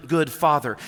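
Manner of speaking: normal talking voice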